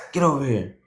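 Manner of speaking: raspy voice. Retold or imitated. Drill instructor ordering a new boot camp arrival over, raspy. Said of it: "he real raspy voice".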